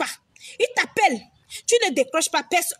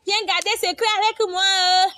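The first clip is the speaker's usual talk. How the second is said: mock sweet friend. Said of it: "tu dis".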